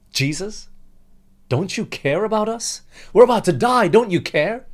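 desperate high cry for help, rising to a shout; panicked cry. Acted. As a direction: beg frantically over the storm. Disciples cry out in storm.

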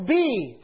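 "be" held long with a falling tune; stress on "be". Shown as a demonstration. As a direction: land firmly on "be" and let it fall. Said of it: "I want to emphasize the word".

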